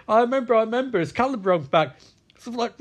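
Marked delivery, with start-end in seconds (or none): 0.1-1.0 high-pitched acted panic; mock freaking out. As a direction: repeat it in a put-on panic. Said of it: "she starts freaking out".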